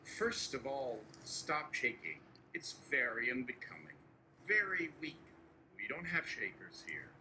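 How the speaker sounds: a hint of Trump scolding an aide; brisk boastful Trump bluster; lightly voiced Trump. Trump lectures nervous Barry, lightly voiced.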